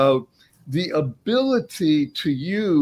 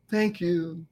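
"thank you" said much softer; 7 dB quieter than usual. Shown as a demonstration. Host repeating the words, softly. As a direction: let "thank you" fade to a hush. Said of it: "these two words are".

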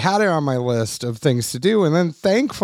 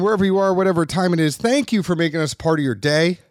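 out of breath; 2 semitones higher, faster than usual. Real, not acted. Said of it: "I'm out of breath".

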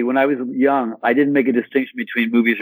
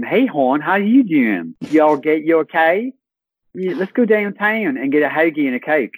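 higher-pitched, homely Baltimore accent; 5 semitones higher than usual. Shown as a demonstration. Local greeting hon and heading downtown, Baltimore accent. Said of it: "Baltimore is like".

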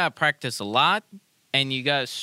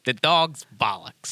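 Irish accent. Shown as a demonstration. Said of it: "how do they talk in Ireland".

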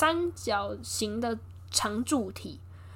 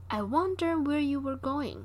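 dreamy musing; 4 semitones higher, slower than usual. Retold or imitated. Betty lying on sofa musing.

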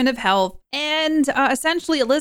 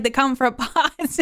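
amused, laughing; 3 semitones higher, slower than usual. Real, not acted. Retelling own question, breaks into laugh.

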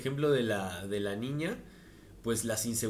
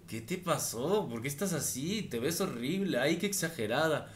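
a hint of a mocking friend, higher; lightly voiced catty friend; 4 semitones higher than usual. Friend mocks the girl's outfit, higher mild sneer. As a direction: sneer at her look, mildly. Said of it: "lo primero que te dice esta amiga".

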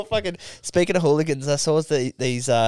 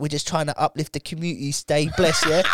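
lightly put-on London Jamaican patter; imitated Jamaican-London geezer; Jamaican English accent. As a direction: sign off in Jamaican English slang. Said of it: "that really cool accent".

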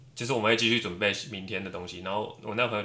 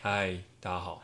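deep magnetic voice; 3 semitones lower, 9 dB quieter than usual. Acted. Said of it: "刚刚是不是有故意要低声音？".

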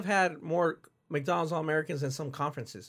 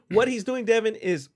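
coughing; 4 semitones higher, 3 dB louder than usual. Real, not acted. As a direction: voice catching on a cough. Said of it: "I'm coughing a little bit".

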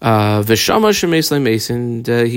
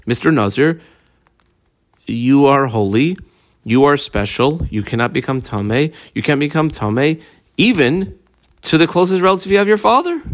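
mock proclamation; 3 semitones higher than usual. Teacher proclaiming the law to the nazir, rising higher. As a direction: preach to the nazir, climbing higher on each phrase.

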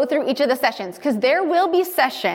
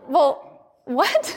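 surprised; 3 semitones higher than usual. Retold or imitated. Retelling her shock, still laughing.

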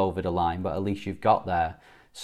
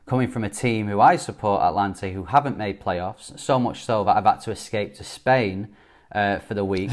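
echoey. Real, not acted. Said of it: "I sound a bit more echoey".

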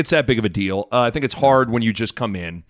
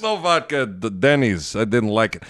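barbarian; 4 semitones lower than usual. Acted. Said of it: "such a ridiculous character".

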